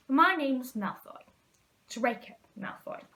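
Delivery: slow, drawn-out and superior; haughty introduction. Acted. Malfoy introducing himself to Harry, slow and lordly. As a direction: savour your own name, looking down on them.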